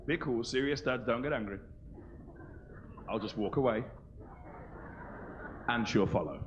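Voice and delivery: low, soft self-calming; calming inner voice. Retold or imitated. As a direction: talk himself down quietly. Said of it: "I thought".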